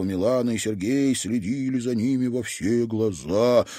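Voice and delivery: plain reading voice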